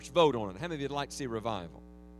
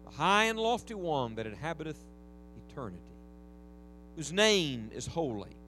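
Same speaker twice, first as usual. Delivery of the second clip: scripture reading. Acted. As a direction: read it out with reverent weight.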